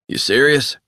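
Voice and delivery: high, rising startled question; incredulous. A narrator's reading. Greer hearing Resnick was at the shootings, incredulous. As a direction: blurt it in disbelief.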